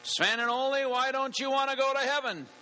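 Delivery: high-pitched, insistent preacher voice; questioning pastor. Acted. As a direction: put the question to them as an astonished pastor. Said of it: "The pastor walked over to them".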